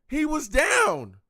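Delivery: high, loud and slow, every word hammered; drawn-out furious protest; outraged shout. Real, not acted. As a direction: yell it at the refs. Repeating outrage at the call.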